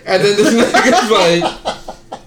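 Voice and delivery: slow words broken by a laugh; laughing while talking. Real, not acted. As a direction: let the laugh break the words.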